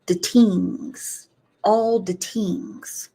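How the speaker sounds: lilting Irish "tings" for things; Irish accent. Retold or imitated. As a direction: do a light Irish brogue. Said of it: "our friend Gaelic that says".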